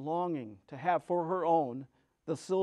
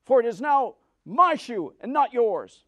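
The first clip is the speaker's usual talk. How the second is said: high, loud witch snapping back; witch retorting; 6 semitones higher, 11 dB louder than usual. Acted. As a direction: refuse her flatly as the witch. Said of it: "retorted the witch".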